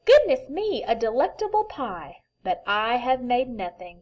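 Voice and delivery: amazed at the pie; delighted surprise. Acted. Bear exclaims at pie.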